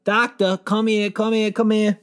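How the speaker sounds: high, loud panicked calls for the doctor; frantic shout for the doctor; panicked calling. Retold or imitated. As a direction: yell for help in a panic. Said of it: "I'm freaking out".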